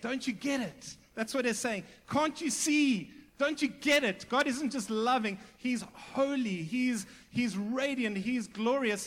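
insistent, fervent preacher at full lift; impassioned exhortation. Acted. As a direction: press the point urgently, loud and high. Preacher voices an urgent exhortation.

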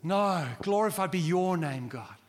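glorified drawn out slowly and loud; slow stressed glorified. Shown as a demonstration. Preacher shows true worship, slow and emphatic. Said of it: "No, no, no, no".

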